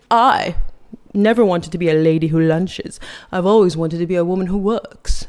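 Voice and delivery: lightly put-on Stewie Griffin accent; a hint of Stewie's affected accent; mock Stewie-like accent. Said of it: "why I gave her that accent".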